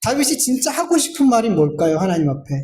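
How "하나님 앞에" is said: ordinary talk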